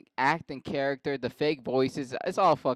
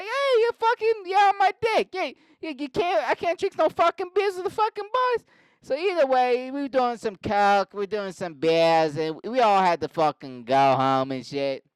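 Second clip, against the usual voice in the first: loud Boston yelling; 11 semitones higher, 6 dB louder than usual. Acted. Mark telling police about the row, loud Boston yelling. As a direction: yell the whole alibi in a hammed-up Boston accent. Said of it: "and it's just loud".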